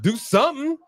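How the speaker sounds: high pleading urge; urging. Real, not acted. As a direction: beg her to fight back. Urging Maxine on screen.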